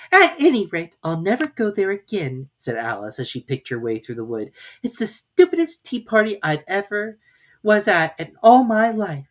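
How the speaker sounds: loud, huffy muttering; cross Alice. A narrator's reading. Alice leaving the tea party, fed up. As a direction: stomp off grumbling.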